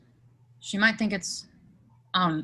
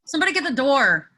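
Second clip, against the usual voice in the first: loud, fast, higher call through the house; 6 semitones higher, 9 dB louder, faster than usual. Acted. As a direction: yell for someone to get the door. Doorbell keeps ringing, calling out.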